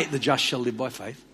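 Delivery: understated calm voice of God; calm God's answer. Retold or imitated. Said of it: "he speaks very clearly".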